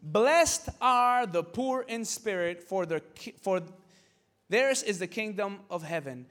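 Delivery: very slow, weighty reading of the verse; solemn, unhurried Bible read; slow scripture reading. Real, not acted. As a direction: lean on Blessed and take it slowly. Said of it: "Now listen".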